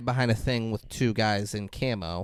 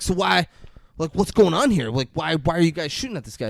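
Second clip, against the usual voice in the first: higher-pitched mock puzzlement; confused questioning; 4 semitones higher than usual. Confused man asking the press why they are shooting, baffled. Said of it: "Pablo Escobar is still confused".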